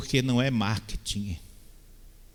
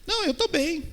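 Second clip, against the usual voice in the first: brushing it off, much higher; dismissive reply. Pretend. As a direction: wave it away like someone in denial. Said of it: "você tá pensando assim". (descartando, com voz bem aguda)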